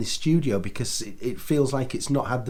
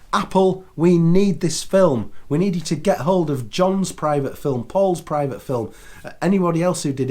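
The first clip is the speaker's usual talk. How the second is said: pleading appeal; 3 semitones higher, 4 dB louder than usual. Real, not acted. Direct appeal to Apple.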